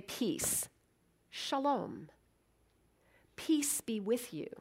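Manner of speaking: hushed, gentle shalom; softly spoken blessing; soft greeting. Shown as a demonstration. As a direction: offer peace quietly.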